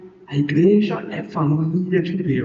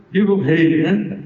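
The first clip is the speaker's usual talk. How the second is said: lower, reluctant "Viva o rei" said without joy; grudging inside; 3 semitones lower than usual. Acted. Uzai's hidden feeling toward Absalão, lower grudging hail. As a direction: hail him while not meaning it. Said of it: "por dentro, né, podia ser que ele tivesse assim".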